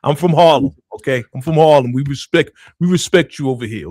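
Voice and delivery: mock respectful address. Cohost speaking to a rapper over here, mock formal. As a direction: talk straight to the rapper like she's listening.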